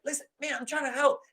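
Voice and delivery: high, soft pleading protest; exasperated attempt to help; frustrated. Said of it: "he's getting frustrated".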